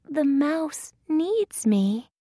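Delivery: high, slow little heroine voice; Thumbelina. A narrator's reading. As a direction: explain it slowly in a high character voice. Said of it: "says Thumbelina".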